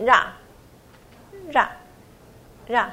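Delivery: ra stretched very slow, syllable by syllable; teacher drags out ra，ra，ra to show the sound; drawn-out ra. Shown as a demonstration. Teacher drawing out ra slowly for the student. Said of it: "不要念到ra".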